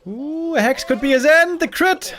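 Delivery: high, loud excited play-by-play; rising hype at a near kill. Real, not acted. Caster reacts to a near kill.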